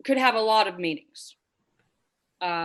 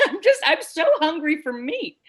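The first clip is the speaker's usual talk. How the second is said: laughing; 6 semitones higher than usual. Real, not acted. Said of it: "Contain yourself".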